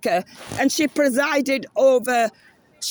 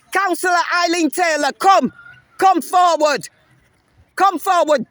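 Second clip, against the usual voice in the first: loud public summons, higher; calling out loudly; 4 semitones higher, 3 dB louder than usual. Real, not acted. Protester loudly summoning the councillor at the unveiling, calling out. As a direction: call her name out across the crowd.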